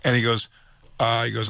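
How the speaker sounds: normal talking voice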